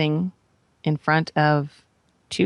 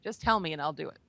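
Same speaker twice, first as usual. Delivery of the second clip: retold desperate plea; 4 semitones higher than usual. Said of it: "And as I'm crying".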